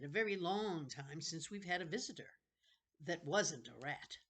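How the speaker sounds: a wheedling ancient keeper of books; creepy old librarian. Acted. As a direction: play a strange, eager old librarian. Librarian character voice.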